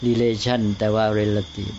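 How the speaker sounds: relation with LAY, but relative as REL-a-tive; เทียบเสียงสองคำ. Shown as a demonstration. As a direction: set re-LA-tion against REL-a-tive. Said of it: "อะไรงี้เป็นต้นนะ". (relation ออกเสียง "รีเลชั่น" แต่ relative "เร็ลละทิฟ")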